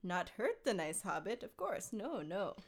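a hint of scheming Gollum, theatrical; understated stagey creature voice; lightly voiced theatrical Gollum. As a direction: read it as a mildly theatrical Gollum. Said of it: "a theatrical voice".

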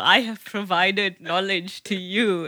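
slow, smug mock boast; a hint of a proud daughter. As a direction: drag it out, pleased with yourself. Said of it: "You're like".

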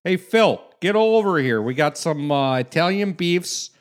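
put-on loud, high Polish accent. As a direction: call out across the bar in Polish accent. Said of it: "we're doing a Polish accent".

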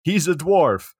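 hammed-up movie rage; mock angry Matthew McConaughey. Friend retelling a movie scene, mock angry. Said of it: "It's Matthew McConaughey saying".

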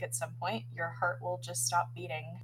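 understated grave delivery; struggling through bad news. Doctor barely getting through a friend's prognosis, subdued. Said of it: "barely get through her prognosis".

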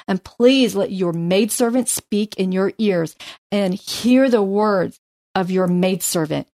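measured, earnest Bible reading; scripture reading. Acted. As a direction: read Abigail's plea with care. Reads scripture aloud.

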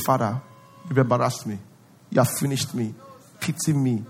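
low, soft begging prayer; a hammed-up pitiful plea, low and soft; mock embarrassed plea. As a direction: beg God like a failure.

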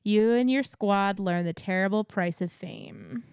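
dramatic, measured announcer-style reading; promo blurb read. Acted. Co-host introducing the last house, dramatic blurb reading. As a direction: read it out like an attraction teaser.

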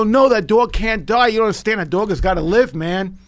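retelling his desperate protest to the son; retold plea. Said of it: "I go".

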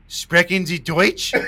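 slow, careful mock German from the dad; dad's stilted German. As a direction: spell it out slowly like a beginner. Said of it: "all he would say is".

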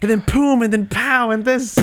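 very high, punchy bursts; excited action sounds. Real, not acted. Co-host reliving the cinematic, very high excited bursts. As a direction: pop each word like an explosion.

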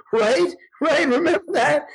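high-pitched, eager questions; mock giddy nudge. Movie watcher nudging the friend beside him, mock giddy. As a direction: play an overexcited friend seeking agreement.

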